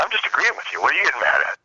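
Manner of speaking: high-pitched innocent protest; mock-innocent protest. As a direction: act puzzled by the other's anger. Retelling own protest to judge.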